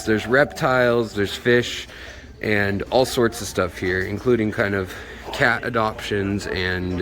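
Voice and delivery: speaking through a face mask; words dulled behind a mask; muffled through mask. Real, not acted. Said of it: "sorry if it's a little muffled".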